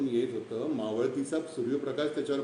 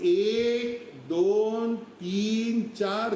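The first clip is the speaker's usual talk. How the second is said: excited counting; 5 semitones higher, much slower than usual. Retold or imitated. Counting cubs as they appear.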